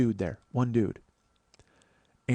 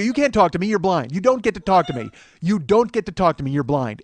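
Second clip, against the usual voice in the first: higher, insistent, hammering the word blind; blunt repeated retort; 4 semitones higher, 6 dB louder than usual. Retold or imitated. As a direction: keep cutting the heckler off. Shouting down blind heckler.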